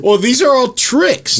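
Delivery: amused, drawn out through laughter; laughing. Real, not acted. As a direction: laugh it out slowly. Laughing reply to friend.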